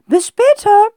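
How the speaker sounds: high, loud hurried call. A narrator's reading. Mother calling goodbye as she rushes off, hurried. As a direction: call it over your shoulder. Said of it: "ruft sie".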